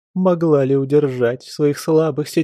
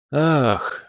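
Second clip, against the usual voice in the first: a mildly played, audible sighed ах; noisy sigh; 3 semitones higher than usual. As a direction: heave a showy sigh, lightly. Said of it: "шумно вздохнул он".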